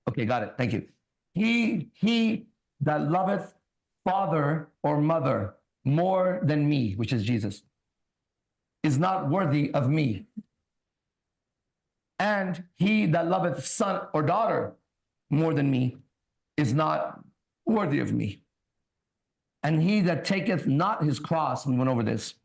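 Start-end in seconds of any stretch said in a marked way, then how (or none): 1.3-6.9 slow, solemn Bible reading; scripture reading. Acted. Reads Bible aloud. 8.8-21.7 slow, solemn Bible reading; scripture reading. Acted. Reads Bible aloud.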